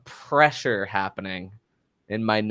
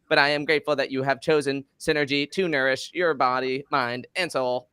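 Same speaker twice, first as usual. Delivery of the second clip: GT Dave robot voice; 2 semitones higher than usual. Acted. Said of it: "my A I wellness robot voice".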